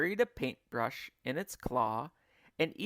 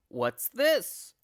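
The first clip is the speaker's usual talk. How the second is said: higher, louder shocked gasp; 8 semitones higher, 7 dB louder than usual. A narrator's reading. Mister Twit shocked entering the living room. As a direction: gasp at the sight. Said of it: "gasped Mister Twit".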